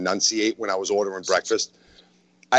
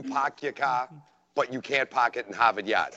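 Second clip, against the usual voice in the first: r-less Boston "park your car"; New England accent; 3 semitones higher than usual. Shown as a demonstration. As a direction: demonstrate the New England dropped r. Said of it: "the New England accent is".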